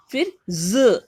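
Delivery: ज whispered to show the buzz; whispered z sound. Shown as a demonstration. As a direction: breathe the ज out unvoiced. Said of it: "इसमें ये बिंदी". (फुसफुसाकर ज़ की आवाज़)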